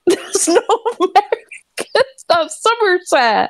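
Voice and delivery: put-on high, laughing Somerset accent. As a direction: defend it in a jokey Somerset accent. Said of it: "Don't diss my Somerset accent".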